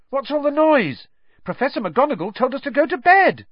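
put-on high, loud annoyed girl voice; complaining girl. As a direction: whine about the noise.

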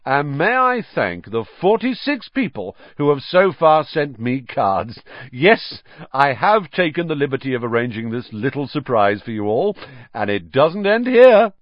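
loud and showy, high; booming showman announcement; shouting. A narrator's reading. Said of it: "Lockhart shouted".

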